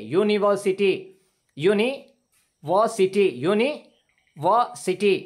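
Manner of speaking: यूनिवर्सिटी said slowly as yoo-ni-ver-si-ty, opening with a y glide; slow model pronunciation. Shown as a demonstration. Teacher drilling यूनिवर्सिटी slowly for students. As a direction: drag out यूनिवर्सिटी with a y sound at the start. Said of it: "बल्कि या की निकल रही है".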